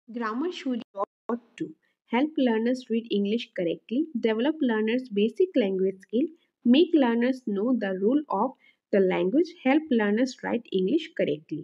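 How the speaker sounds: measured, deliberate quiz reading; slow option reading. Shown as a demonstration. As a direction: read each option out slowly. Reads quiz question and options.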